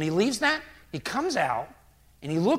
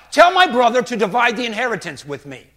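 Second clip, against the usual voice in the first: high, loud heckle from a crowd; shouting out; 5 semitones higher, 11 dB louder than usual. Acted. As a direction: yell a demand over everyone. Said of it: "some guy in the crowd shouts out".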